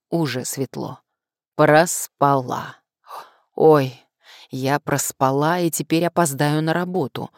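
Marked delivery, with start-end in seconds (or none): 1.5-2.8 slow, loud dismayed realization; startled realization. Acted. Waking up, realizing overslept. 3.5-7.3 alarmed. Acted. Panicked waking.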